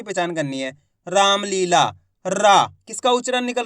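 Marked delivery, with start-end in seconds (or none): 1.1-1.8 रामलीला with long, stretched vowels; drawn-out pronunciation. Shown as a demonstration. Teacher dictating a word to learners, रामलीला drawn out. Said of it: "खींच के उच्चारण हो रहा". 2.2-2.7 रा with a long held aa; drawn-out syllable. Shown as a demonstration. Teacher isolating the first letter's sound, रा drawn out. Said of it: "और खींच के निकल रहा है".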